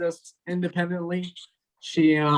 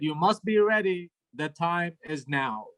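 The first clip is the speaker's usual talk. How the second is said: mock-solemn, slowing on the last words; ominous. Mother calls at eight P M, ominous. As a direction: imitate a grave, cryptic warning. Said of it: "phone calls always sound ominous".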